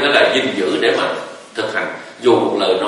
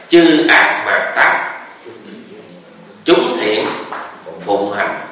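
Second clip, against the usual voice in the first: slow, measured chanting of the verse; verse recitation; much slower than usual. Shown as a demonstration. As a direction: recite it slowly like scripture. (tụng chậm rãi câu kệ)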